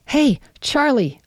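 high, slow call across the yard; yelled greeting. Acted. Narrator calling to the detective over his snowblower, loud. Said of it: "I yelled".

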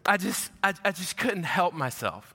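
lightly acted crying child, halting restarts; imitating a tearful preschooler, haltingly; mock blubbering. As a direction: stammer it out like an upset little kid, half-acted. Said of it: "She's, like, blubbering".

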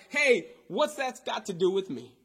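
a mock impatient prophet waving her off, building; dismissive paraphrase. Preacher voicing a prophet brushing off the widow, dismissive and loud. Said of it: "in regular vernacular".

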